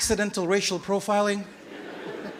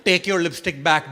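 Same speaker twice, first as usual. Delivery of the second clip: put-on Indian accent. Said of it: "That's the accent I had".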